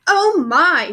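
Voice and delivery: high startled gasp of words; alarmed mother crying out; cried out. A narrator's reading. Mother shocked at her striped daughter, crying out. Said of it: "she cried".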